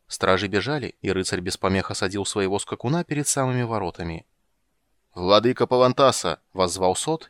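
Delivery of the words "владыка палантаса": booming voice from the grave; sepulchral voice. Acted. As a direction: call out like a hollow ghost. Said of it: "гулкий замогильный голос эхом".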